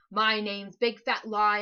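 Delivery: very loud, low monster voice with big punched; booming Big Fat Lie. Acted. Monster introducing itself to Max, booming. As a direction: boast the name like a giant.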